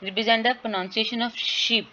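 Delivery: slow, careful reading of English text; measured classroom reading; slow textbook reading. Acted. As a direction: read each word out deliberately. Reads the textbook line aloud.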